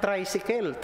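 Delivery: tricycle said "tray-si-kel", open e in the last syllable; Cebuano-accented "traysikel". Shown as a demonstration. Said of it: "Paano bigkasin ng mga Cebuano".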